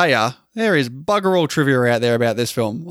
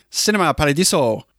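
put-on Italian accent. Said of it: "That was a brilliant Italian accident".

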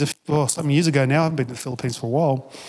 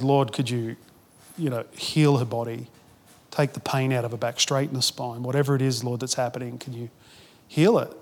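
retold prayer; 3 semitones lower, 5 dB quieter than usual. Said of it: "I just started praying".

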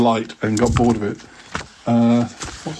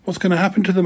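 eager, higher question from thrilled schoolboys; enthralled boys; 8 semitones higher, faster than usual. Acted. Two boys asking about the thieves' fate, enthralled and higher. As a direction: ask it breathless with excitement, higher. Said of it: "enthralled at the prospect".

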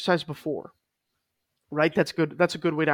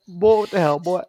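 hammed-up redneck yell; 3 semitones higher, 5 dB louder than usual. Mock onlooker yelling again, bigger.

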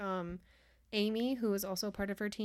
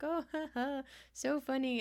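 sarcastic; 5 semitones higher than usual. Retold or imitated. Sarcastic fake laugh quote.

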